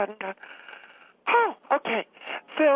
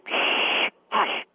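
shushing. Pretend. Shushes brother-in-law laughing nearby.

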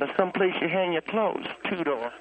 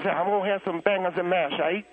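mock Cockney. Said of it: "here's what he says".

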